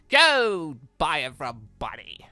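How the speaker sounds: usual speaking voice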